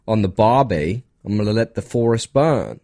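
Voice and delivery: amateur Aussie accent attempt; hammed-up Australian accent. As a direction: put on a stock Australian accent. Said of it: "if I keep doing Australian".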